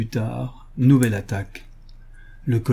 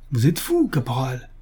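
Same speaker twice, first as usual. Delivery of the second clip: narrated mock yell; colonel yelling; 2 semitones higher than usual. A narrator's reading. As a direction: cry out in alarm like an officer, without full force. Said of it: "hurla le colonel".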